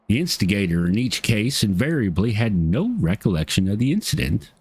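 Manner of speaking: light Southern twang on an NPC's lines. Acted. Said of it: "that's the voice I'm going with".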